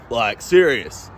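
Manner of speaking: drawn out, very slow; slow deadpan. Retold or imitated. Insisting to the bikie, slow and deadpan. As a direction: let each syllable drag. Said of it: "I'm like".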